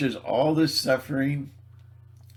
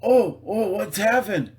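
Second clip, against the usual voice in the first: higher, louder fussing churchgoer; mock church friend; 7 semitones higher, 5 dB louder than usual. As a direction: act a flustered neighbour a bit high. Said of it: "another guy from their church".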